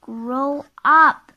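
loud bossy command; Miss Bossy. Acted. Miss Bossy orders Mister Small, loud and bossy. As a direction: punch it out as an order. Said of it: "exclaimed Miss Bossy".

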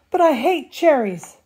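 high-pitched cross protest; angry shout. A narrator's reading. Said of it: "shouted Angry".

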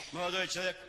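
loud call from behind; doorman calling out. Retold or imitated. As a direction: call out after a guest. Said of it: "Вдруг сзади крик".

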